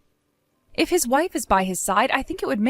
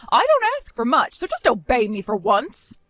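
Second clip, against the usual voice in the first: shrill indignant outburst. Acted. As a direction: flare up as if wronged. Mother-in-law orders daughter-in-law around.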